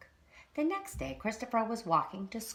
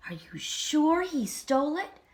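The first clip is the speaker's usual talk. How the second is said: whispered question; 11 semitones higher, 6 dB louder than usual. A narrator's reading. Gossiping about secret.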